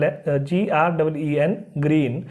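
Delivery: ग्रीन with the जी sounding as hard ग; teacher slowly sounding out ग्रीन; spelling then saying green. Shown as a demonstration. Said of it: "ग की तरह".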